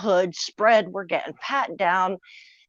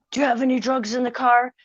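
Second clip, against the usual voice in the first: louder, fast barked commands; police yelling, retold; 5 semitones higher, 4 dB louder than usual. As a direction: rattle off the cops' orders loud and quick. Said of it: "The police are screaming at us".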